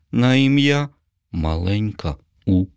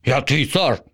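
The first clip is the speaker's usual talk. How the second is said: proud zombie claim; lightly voiced zombie king; a hint of a boastful monster; zombie assuring; 6 semitones higher than usual. A narrator's reading. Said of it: "запевнив Боба".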